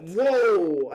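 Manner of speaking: loud, high whoa of shock; retold shock. Son hearing his dad disown him, retold shock. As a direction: act out being hit by it, very loud. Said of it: "that hit me".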